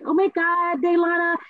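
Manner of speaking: put-on high, bubbly valley-girl gush; mock white girl squeal of delight; white friend voice. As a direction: gush like an excitable white girlfriend. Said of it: "I should not have did that voice".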